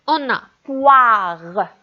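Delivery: poire, slowly stretched out; slow demo word. Shown as a demonstration. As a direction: draw out poire for the children. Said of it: "On entend wa".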